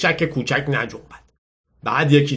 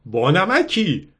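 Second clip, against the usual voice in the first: higher-pitched, drawn-out tease; teasing girl; 5 semitones higher, much slower than usual. Acted. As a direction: stretch it out playfully. Amused girl teases Lou. (لحن کشدار و شوخ دخترانه)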